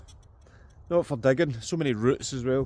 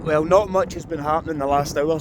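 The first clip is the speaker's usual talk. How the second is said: talking over loud wind; in strong wind; 3 semitones higher, 5 dB louder than usual. Real, not acted. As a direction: wind roaring around the mic. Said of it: "sorry about the wind".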